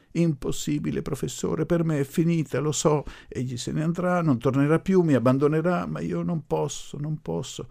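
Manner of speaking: high, anguished protest; desperate. A narrator's reading. Grieving girl telling the professor she cannot marry, desperate. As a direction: plead helplessly in a high voice.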